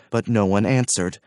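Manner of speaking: ordinary delivery, nothing marked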